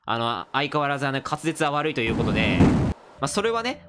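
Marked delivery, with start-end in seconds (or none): 0.0-2.6 cool voice. Acted. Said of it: "イケボーでカバーしましょう".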